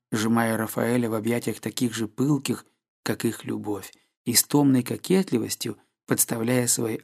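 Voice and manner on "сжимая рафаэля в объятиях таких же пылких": ordinary delivery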